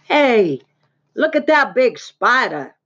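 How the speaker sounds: loud, drawn-out excited call; excited boy. A narrator's reading. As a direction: call out a big find. Excited boy spots a spider.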